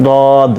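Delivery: "দদ" with tongue edge on the upper molars, heavy d; heavy Arabic "দদ"; teacher introducing the unique letter; Arabic dad. Shown as a demonstration. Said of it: "এটাকে বলা হয়".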